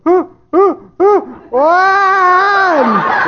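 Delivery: put-on high whimpering baby cries; mock baby whimper. Preacher imitating a baby turning fussy, mock whimper. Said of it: "And then they go".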